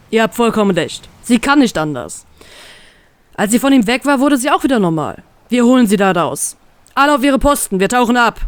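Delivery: determined command. Acted. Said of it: "befiehlt er ihnen zielgerichtet".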